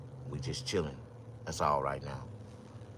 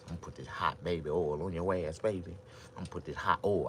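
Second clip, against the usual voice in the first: seductive murmur; 3 semitones lower, 6 dB quieter than usual. Acted.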